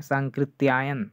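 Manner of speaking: सांकृत्यायन said carefully, ending in -yaayan; careful correct pronunciation. Shown as a demonstration. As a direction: sound out सांकृत्यायन clearly, with no k in the last syllable. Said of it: "थोड़ा सा ध्यान रखिएगा जैसे इनका नाम है".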